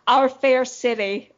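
slow, lightly put-on Boston accent. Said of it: "that was a terrible Boston accent".

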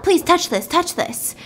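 pleading. Retold or imitated. Old lady urging the blind man to touch it, pleading. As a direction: coax them, voice lifted.

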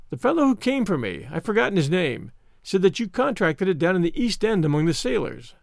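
lightly voiced smug interrogator; Mister Smith, smug. Visitor questioning sick Holmes, mildly smug.

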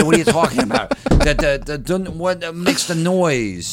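a confused promoter who can't follow; baffled promoter. Retold or imitated.

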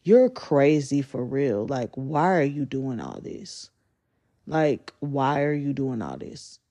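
put-on weary incredulous girl; exasperated disbelief. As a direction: drag it out, fed up. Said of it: "And I'm like".

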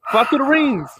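high-pitched mock command; mock game instruction. Mocking Superman 64's ring task, a high mock command. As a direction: call it out high, making fun of the game.

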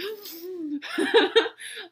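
high crying gasp; teary gasp. Real, not acted. Podcaster apologising to listeners for crying, high tearful gasp. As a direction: catch your breath in a high, tearful gasp. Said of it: "I'm not sorry for crying. I'm sorry that I'm like".

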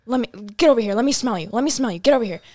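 loud commanding demand; mom demanding. Retold or imitated. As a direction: order her over, loud and insistent. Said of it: "She goes".

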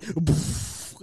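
sudden puff of toilet noise; imitated flush burst. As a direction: blow out a quick whooshing poof. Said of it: "the thing went".

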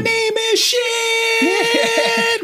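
high, slow mock shout; yelling. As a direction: bellow it out, drawn out. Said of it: "You'd be like".

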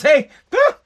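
mocking a smug politician flaunting her party. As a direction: sneer it like you're above the rules. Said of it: "puts her fingers up to us all and says".

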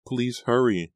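high urgent begging; Nora. A narrator's reading. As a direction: beg for haste. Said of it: "Nora begged".

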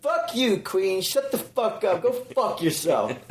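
defensive mock yell. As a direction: fire it back like a defensive friend. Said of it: "we're immediately ... defensive".

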